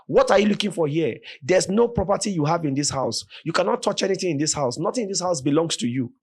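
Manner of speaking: fast, defiant challenge; mother defying armed robbers. Retold or imitated. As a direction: stand up to the robber. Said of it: "This woman now says".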